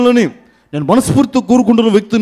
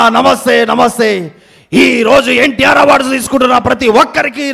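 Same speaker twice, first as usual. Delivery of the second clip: louder, higher rally greeting; mimicked politician; 4 semitones higher, 3 dB louder than usual. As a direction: greet the crowd like a party leader. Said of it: "play for mimicry video".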